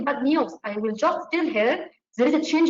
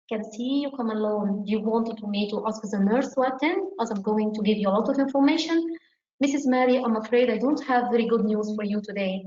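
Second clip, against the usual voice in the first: a touch softer doctor's voice, calm; gentle, softer tone; 2 semitones lower, faster than usual. Shown as a demonstration. Doctor warning the patient before bad news, softly calm. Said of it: "change your tone of voice".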